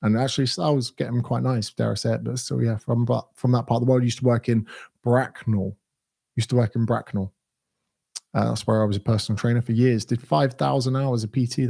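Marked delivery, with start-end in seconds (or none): 4.0-5.8 lingering delivery. Real, not acted. First take, lingering before town name.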